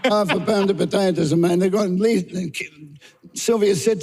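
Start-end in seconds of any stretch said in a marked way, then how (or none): 0.1-1.6 a mock Italian accent, lightly put on; hammed-up Italian shopkeeper accent. Actor showing the casting people his Italian accent. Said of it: "talking in my Italian accent".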